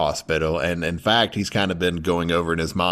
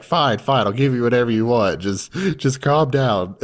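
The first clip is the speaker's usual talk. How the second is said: higher, hurried giving in; flustered caving; 4 semitones higher than usual. Retold or imitated. Boy caving to the crying girl, higher and hurried. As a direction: placate her quickly.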